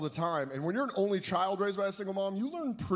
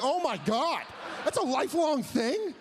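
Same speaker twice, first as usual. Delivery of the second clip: shocked; 9 semitones higher, 4 dB louder than usual. Retold or imitated. Reacting to own voice.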